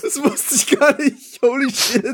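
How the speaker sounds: high shocked disbelief; surprised. Real, not acted. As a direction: squeal it out in shock. Shocked by writer news. (hoch und fassungslos)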